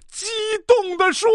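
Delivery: high, hammed-up impassioned recitation; emotional climax. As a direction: peak of an overblown dramatic reading. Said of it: "情绪逐渐达到了高潮".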